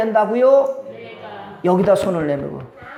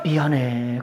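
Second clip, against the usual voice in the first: quiet low sorry; soft sorry; 9 semitones lower, 5 dB quieter, slower than usual. Retold or imitated. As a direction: say it gently, barely audible. Parent saying sorry.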